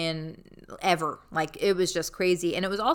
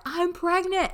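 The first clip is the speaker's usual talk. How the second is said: pretend blurt; 11 semitones higher, slower than usual. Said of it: "turn around and be like".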